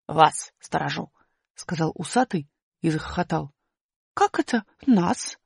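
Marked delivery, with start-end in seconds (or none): 0.1-1.1 чуть ниже и медленно, с ухмылкой; протяни с глумливой ухмылкой; насмешливый усатый. Acted. 4.1-5.4 высоко и громко, недоумевая; маленькая героиня возмущённо спрашивает; высокий удивлённый голос. Acted. Аля недоумевает.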